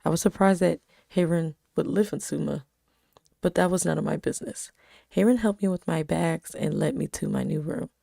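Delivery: even storytelling read; story narration. A narrator's reading. Reading her story aloud.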